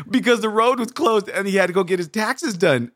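high giggle running into the punchline; hammed-up laughing punchline delivery; sister in stitches. Sister giving a joke that makes no sense, giggling. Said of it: "my sister's in stitches".

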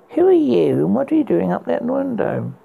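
loud, high call up to a window. Acted. Prince calls up to the girl at the window, loud and high. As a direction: prince hails the girl above, shouting up.

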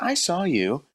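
excited fan. Retold or imitated. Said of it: "And she's like".

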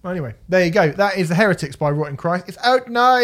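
put-on radio outro in a hammy Greek accent. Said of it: "Is that your Greek accent?".

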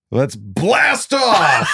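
stretched hype shout. Acted. Kicking off the episode.

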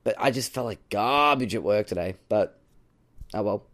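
hoarse, croaky throat tonight. Real, not acted. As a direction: speak through a croaky voice. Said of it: "I'm a little croaky, croaky voice tonight".

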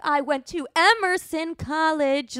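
mock bragging. Mocking liberal arts grads bragging.

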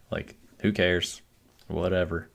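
slow, shrugging indifference; matter-of-fact. Retold or imitated. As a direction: toss it off like nothing matters. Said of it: "he talks so matter-of-factly".

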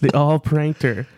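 "pranked her" drawn out slowly; slow, emphatic confirmation; deliberate repeat. Real, not acted. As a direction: spell out the twist slowly for a disbelieving listener. Repeats twist after listener's "What?.

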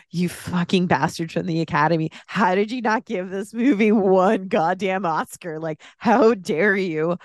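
mock-outraged scolding, pitch climbing; emotional, exasperated telling-off, slowing on the final demand; indignant tirade. Film fan berating the Academy over the Oscar snub, indignant.

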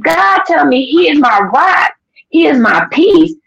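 high, slow, emphatic testimony; fervent declaration. Retold or imitated. Telling husband God's answer, fervent. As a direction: proclaim it slowly with lifted voice.

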